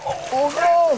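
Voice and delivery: loud, high "oh no"; alarmed cry. Real, not acted. Fish slipping from net.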